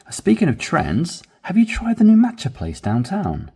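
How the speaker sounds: bright, animated reading of a dialogue; lively dialogue reading. Shown as a demonstration. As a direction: read it with extra flavor. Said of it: "add a bit more flavor, a bit more excitement".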